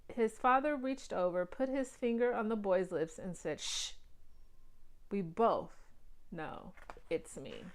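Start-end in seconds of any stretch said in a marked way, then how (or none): 3.6-7.7 soft hushing shh; quiet him gently. A narrator's reading. Finger on boy's lips.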